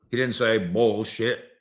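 ordinary talk, nothing marked

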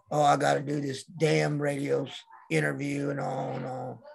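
low, subdued reluctant grumble; off-air grumbling. Retold or imitated. Boss dreading a radio interview, low reluctant grumble. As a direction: grumble quietly about a chore. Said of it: "it was just like night and day".

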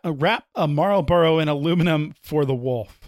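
careful crisp delivery, "Marlboro" and "wolf" with clear l; perfect diction. Shown as a demonstration. Showing off perfect diction on request, every word crisp. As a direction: enunciate every word precisely. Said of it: "repeat that with your perfect diction".

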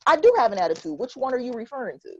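feigned innocence with a sarcastic edge. Acted. Answering someone who says "you have an attitude", very sarcastic. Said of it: "I'm gonna be very sarcastic".

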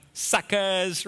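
drawn-out, mock-boastful jeer; gloating taunt. Peter to James and John, gloating. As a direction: rub it in playfully.

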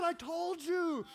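hammed-up I-told-you-so; mock retort. Wife's retort in comic story.

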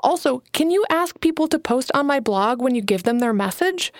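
a hint of a nervous young writer pitching her idea; young Alana, eager. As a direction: lift the voice a little for eager Alana. Alana's dialogue voiced by narrator.

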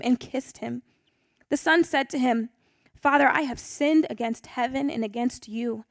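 steady, measured Bible reading; scripture reading. Acted. Pastor reading Luke fifteen aloud, measured scripture reading. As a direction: read the parable calmly to the group.

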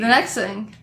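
lisping from a fresh tongue piercing. Real, not acted. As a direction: talk around a swollen tongue. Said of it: "She just had a tongue piercing".

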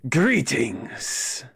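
put-on stately Spanish-accented greeting. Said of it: "Peter do a Spanish accent".

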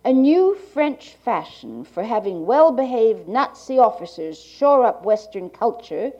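like a 1980s archival tape. Real, not acted. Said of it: "to Gallant's reading".

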